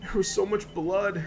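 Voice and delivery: shaken and frightened. Acted. Attacked man telling the doctor what grabbed him. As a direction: relive the horror as you tell it. Patient recounts attack, terrified.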